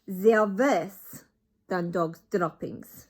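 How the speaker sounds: put-on very slow, loud accented witch screech. Grand High Witch to her crowd, slow loud screech. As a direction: drag out the disgust. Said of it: "screeched the Grand High Witch".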